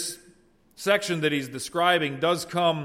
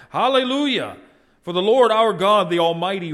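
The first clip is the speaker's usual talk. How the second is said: Hallelujah much higher and louder, full out; roaring cry; 5 semitones higher, 8 dB louder than usual. Acted. Preacher voicing the thundering multitude, loud roar. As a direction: roar it like thunder and many waters. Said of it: "like the roar of many waters ... crying out".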